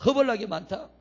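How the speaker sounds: lightly done Jeolla phrase, rising; a hint of Jeolla dialect. Shown as a demonstration. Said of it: "그럼 전라도는 뭐예요?".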